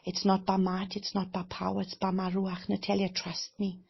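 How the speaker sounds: hushed, tender divine reassurance; gentle voice of God. Retold or imitated. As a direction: speak it as the Father comforting her. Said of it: "the Father said to me".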